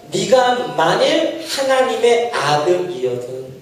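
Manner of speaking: slow, deliberate scripture reading; slow, measured reciting of the verse. Shown as a demonstration. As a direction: read it out word by word. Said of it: "사십 절에 뭐라고 해요?".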